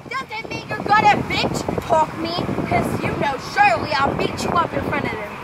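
lightly voiced bossy sibling yelling; a hint of an irked sibling's threats; sister. Player acting as sister scolding Raylan, mock annoyed. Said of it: "She told me to act like my sister".

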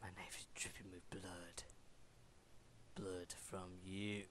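"My knife is dripping with blood" fully whispered, low; scary whisper. Acted. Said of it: "I do the scary voice".

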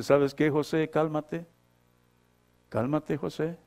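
soft, a touch of a soothing inner voice; inner voice calming. Acted. Inner voice calming José, soft and gentle. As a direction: hush José like a gentle voice within. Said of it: "ya hay alguien adentro que te dice".

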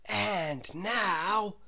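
lightly voiced grown-up; lightly voiced guide; Mister Daydream. A narrator's reading. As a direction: announce the next trip. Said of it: "said Mister Daydream".

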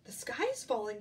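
loud, lightly voiced turkey; a hint of an alarmed turkey; gobbling turkey. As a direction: gobble it out loudly. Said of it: "gobbled Turkey Lurkey".

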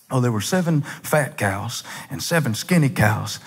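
Pharaoh lightly voiced with a Southern twang; mock Southern accent. Preacher playing Pharaoh telling his dream, mock Southern accent. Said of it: "I don't know why Pharaoh's talking like this. It must be Southern Egypt".

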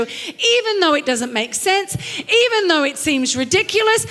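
impassioned preacher's rise; rising preaching cry. Real, not acted. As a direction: build the fervor. Preaching climax.

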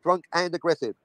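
"and" picked out deliberately; measured phrase with weight on "and"; stress on AND. Shown as a demonstration. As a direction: hit "and" to link both words. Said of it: "Operative word and".

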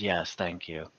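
a hint of a shy, smiling NPC; Venzo's quiet thanks. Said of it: "Venzo just kind of nods and smiles and says".

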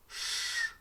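a long hushing ш, with no voicing; voiceless Ш. Shown as a demonstration. Teacher isolates the sound heard in the word, long voiceless ш. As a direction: hold ш as a drawn-out unvoiced hush. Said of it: "так, глухий ш".

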